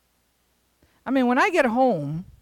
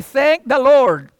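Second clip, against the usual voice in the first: imagined grateful dog; 4 semitones higher, 7 dB louder than usual. Pretend. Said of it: "The dogs never say".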